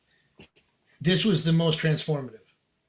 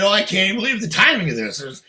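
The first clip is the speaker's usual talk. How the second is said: higher, fast, frantic blurting; imitated tornado rant; 6 semitones higher, 6 dB louder than usual. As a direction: act out a friend's rushing flood of news. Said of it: "it was like a tornado".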